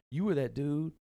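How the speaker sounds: a hammed-up Southern country accent. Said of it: "When you do that country accent".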